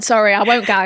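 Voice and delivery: retching while talking; fighting back a gag; gagging. Real, not acted. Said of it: "Don't do the gag noise".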